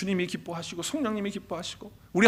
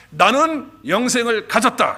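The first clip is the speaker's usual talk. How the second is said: slow, loud, proclaiming; loud declaration; 4 semitones higher, 6 dB louder, slower than usual. Shown as a demonstration. Preacher leads the church in a declaration, slow and loud. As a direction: declare it slowly for all to repeat. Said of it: "한번 같이 선언하십시다".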